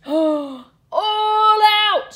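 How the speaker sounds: loud, high gasping yell of all out; shouted. Acted. Bus driver shouting at the animals to get off, loud gasping shout. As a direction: bellow all out to the passengers. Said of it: "shouted the bus driver".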